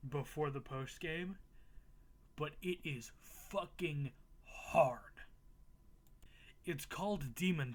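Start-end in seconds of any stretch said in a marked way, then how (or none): 2.4-5.0 hushed aside, voiceless; whisper. Real, not acted. Whispering to viewers how hard it is. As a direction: whisper it like a secret warning.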